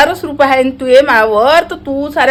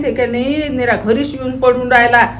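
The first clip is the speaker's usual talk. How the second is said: meek pleading; 4 semitones lower than usual. Retold or imitated. Woman reenacting how she begged her friend for a loan, meek lower plea. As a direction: humbly beg the friend for money. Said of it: "पैसे मागताना काय म्हणत होती हो तू?".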